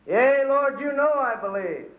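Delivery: high, hurried yea Lord; eager quick answer. Acted. Man dangling on the cliff answering the Lord, eager and high. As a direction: blurt it out eagerly to God.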